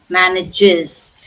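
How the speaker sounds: MANAGES as MAN-ij-IZ, three syllables; extra syllable. Shown as a demonstration. Teacher makes sure learners pronounce this too, added syllable. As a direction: sound the final "iz" in MANAGES. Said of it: "make sure that we pronounce this".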